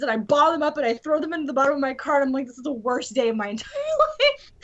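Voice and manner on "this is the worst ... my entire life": laughing despair. Retold or imitated. Retelling her worst day.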